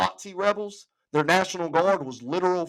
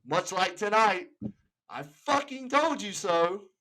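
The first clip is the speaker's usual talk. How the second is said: smug told-you-so; slower than usual. Pretend. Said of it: "I'm gonna say".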